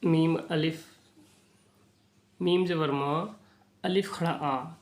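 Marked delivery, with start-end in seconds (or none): 2.4-4.8 "मा" and "आ" kept apart with a pause; two separate units. Shown as a demonstration. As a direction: spell out "मीम ज़बर मा", break, then "अलिफ खड़ा आ". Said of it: "देखिए दोनों अलग अलग".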